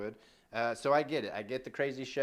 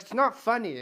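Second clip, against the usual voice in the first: loud, high imitated telling-off; annoyed and mad; 10 semitones higher, 9 dB louder than usual. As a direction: snap it, imitating an angry judge. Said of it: "she got so annoyed and so mad".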